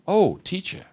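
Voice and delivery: high, fawning oh teacher; two-faced flattery. Acted. Pharisee fawning over Jesus, high and insincere. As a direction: sweeten it falsely. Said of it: "How about that for two-face?".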